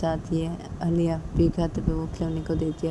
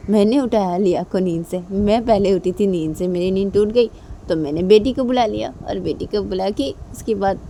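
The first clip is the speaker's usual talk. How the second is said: a bit louder, playful justifying; cheeky explaining; 2 semitones higher, 5 dB louder than usual. Acted. Father explains his prank to angry wife, cheeky. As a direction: own the prank with a grin.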